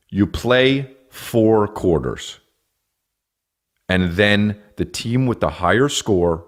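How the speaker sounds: slow, patronizing spelled out rules; slow explaining. Pretend. Comic explaining football rules, slow patronizing. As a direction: spell it out like to a child.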